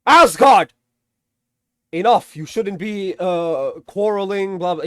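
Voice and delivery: hammed-up order to stop quarreling; mock Thor command. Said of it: "Thor is just like".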